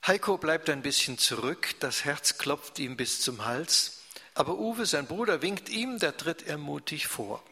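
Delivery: lively read-aloud narration; story narration. A narrator's reading. Liest Erzählung vor. (lebhaft vorgelesene Erzählung)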